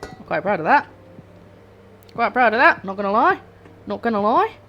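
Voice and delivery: put-on light Australian accent with rising ends. Cook proud of her chili sauce, in a mock Australian accent. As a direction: slip into a playful Australian accent. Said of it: "Don't know why I've gone Australian".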